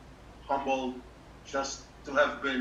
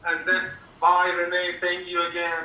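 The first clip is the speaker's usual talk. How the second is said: louder, higher, laughing through the words; 5 semitones higher, 7 dB louder than usual. Real, not acted. Joking to the team while laughing loudly. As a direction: tease your colleague while laughing. Teasing colleague, laughing at the meeting.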